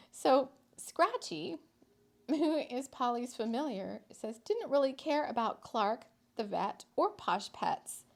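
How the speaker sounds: lively storyteller reading; story narration. A narrator's reading. Reading a whimsical town story to listeners, lively narration. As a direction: tell the tale with a light touch.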